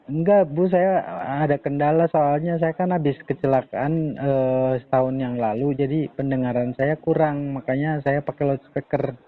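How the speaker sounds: choppy speakerphone line; talking from a phone on loudspeaker. Real, not acted. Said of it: "Jadi suaranya putus-putus".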